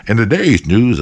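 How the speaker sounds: lightly voiced news anchor; mock newsreader. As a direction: open a spoof news bulletin. Mock news report of her death.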